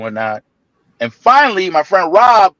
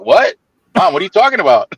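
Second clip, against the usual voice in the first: much higher "What?", then protesting; imitating startled son; 7 semitones higher, faster than usual. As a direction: play a teen caught in the shower. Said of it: "It's like".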